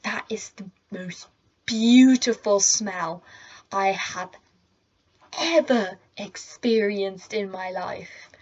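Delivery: slow, reverent savouring with dramatic pauses; awed inner thought. Retold or imitated. Student marvelling inwardly at chocolate cake, slow mock awe. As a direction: draw it out like a mock revelation. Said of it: "just thought to myself".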